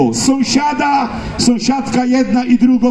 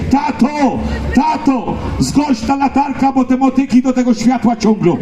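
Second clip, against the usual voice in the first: put-on child yelling; 7 semitones higher than usual.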